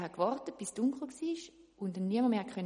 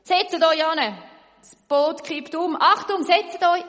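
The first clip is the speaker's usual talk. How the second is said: very loud warning shout, higher; alarmed shout; 8 semitones higher, 14 dB louder than usual. Acted. Woodcutter warning the boat will tip, alarmed shout. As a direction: yell a warning, the boat tips. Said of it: "ruft plötzlich der Holzfäller".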